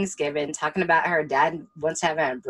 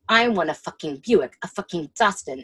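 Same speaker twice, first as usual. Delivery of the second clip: mock swearing tirade; 4 dB louder than usual. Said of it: "He's swearing at her the whole fucking time".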